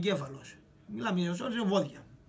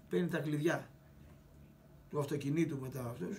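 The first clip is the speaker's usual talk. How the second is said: ordinary talk, nothing marked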